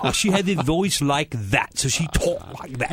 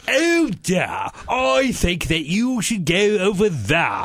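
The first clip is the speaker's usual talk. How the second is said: put-on slow, raised South African accent; slower than usual. Friend retelling an acting classmate's South African accent. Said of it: "putting on the, the accent as an act".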